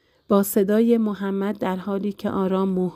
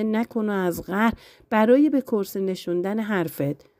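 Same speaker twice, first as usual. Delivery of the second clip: kind words with a firm edge; gentle but firm; 3 semitones higher than usual. Acted. Husband stroking his wife's hair, setting a boundary: gentle but firm. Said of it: "با لحنی ملایم اما محکم گفت".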